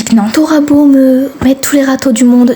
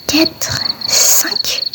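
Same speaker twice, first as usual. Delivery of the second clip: whispered counting; 4 semitones higher, 7 dB quieter than usual. Acted. Child counting under breath.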